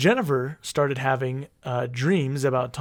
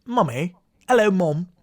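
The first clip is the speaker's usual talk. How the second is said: put-on child calling; 10 semitones higher than usual.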